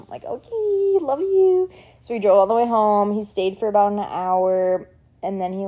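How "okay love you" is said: resigned give-in. Retold or imitated. Giving in to boyfriend's insistence.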